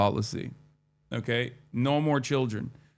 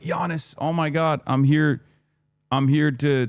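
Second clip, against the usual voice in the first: starstruck fan; 4 semitones higher, 4 dB louder than usual. Retold or imitated.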